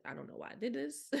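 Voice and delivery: retold mock despair; acted regret. Acts out her second thoughts.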